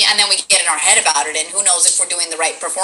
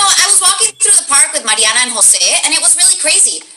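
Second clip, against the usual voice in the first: higher voice, names said with Spanish pronunciation; supposed Spanish accent; 6 semitones higher than usual. Shown as a demonstration. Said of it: "let's just do it without an accent".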